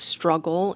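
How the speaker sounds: "struggle" set apart for emphasis; stress on struggle. Real, not acted. Someone with ADHD admitting difficulty, emphasis on "struggle". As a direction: lean lightly on "struggle". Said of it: "I really emphasize that word".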